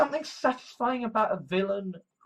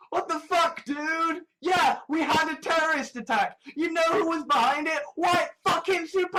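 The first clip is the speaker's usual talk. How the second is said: mock Sweden outburst; 8 semitones higher than usual. Sweden voiced as a fed-up ranter, high mock shout. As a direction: shout it like an exasperated country ranting. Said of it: "Sweden's just like".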